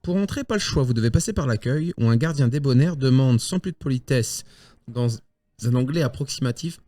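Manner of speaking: measured game master's scene setting; Spielleitung beschreibt die Szene. A narrator's reading. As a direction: narrate the university grounds to the players.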